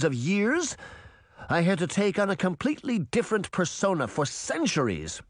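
wounded, heated queen; indignant wicked queen. A narrator's reading. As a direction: pile up grievances in a high, pressing voice. Bunny argues back in anguish.

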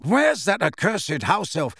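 calling out. Acted. Sirius calling for the elf.

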